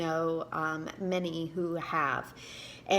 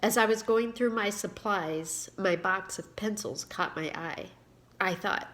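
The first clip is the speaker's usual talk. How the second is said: reading her own book aloud, a touch livelier than her chat; story reading. Acted. Author reading her story to viewers, expressive narration. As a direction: read the story to your viewers with gentle storytelling lift.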